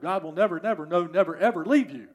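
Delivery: insistent beats on every "never"; emphatic absolute. Shown as a demonstration. Preacher tells the congregation it's an absolute, emphatic. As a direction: drive "never, never, no, never, ever" home, each word punched. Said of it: "It's a double, double negative. It's an absolute".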